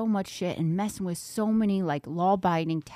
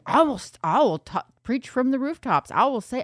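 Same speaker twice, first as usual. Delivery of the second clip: grandstanding husband; 6 semitones higher, 3 dB louder than usual. Retold or imitated.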